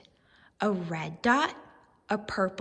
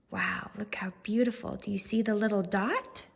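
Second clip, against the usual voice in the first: awed; faster than usual. Acted. Reader marvels with children.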